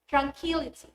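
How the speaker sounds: tranQUILity, stressed on QUIL; pre-suffix stress. Shown as a demonstration. Teacher showing suffix rule, tranQUILity stressed before -ity. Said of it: "syllable before these suffixes".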